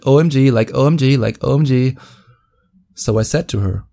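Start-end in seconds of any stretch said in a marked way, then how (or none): 0.1-2.0 lightly voiced valley girl OMG; a hint of a ditzy girl gushing O M G; mocking her way of talking. Mimicking the date's way of saying OMG. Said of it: "like she would say it".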